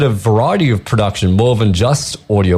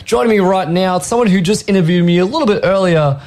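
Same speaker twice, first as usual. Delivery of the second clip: higher, upbeat radio host delivery; commercial radio voice; 4 semitones higher than usual. Acted. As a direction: sell it like a commercial DJ. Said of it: "you're doing your commercial voice right now".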